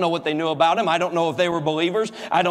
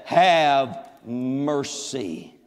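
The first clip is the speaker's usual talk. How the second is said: pleading cry; 7 semitones lower, much slower than usual. Acted. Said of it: "here's what they said".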